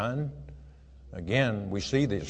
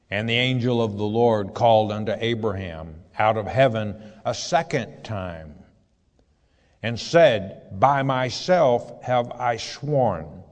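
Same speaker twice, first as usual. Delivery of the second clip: raised, measured Bible reading voice; scripture reading; 3 dB louder than usual. Acted. Preacher reading Genesis aloud to his flock, solemn reading voice. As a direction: read the verse out to the congregation. Reads second angel call.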